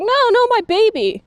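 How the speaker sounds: high, pleading mock cry; a light take on a mother begging for her baby; imitating distressed mother. Reviewer retells Janine's breakdown in a mildly pleading high voice. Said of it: "she's like".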